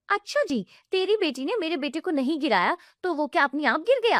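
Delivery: high sarcastic jab, quick; mocking aunt. Aunt sneering at the widowed sister-in-law, high and fast.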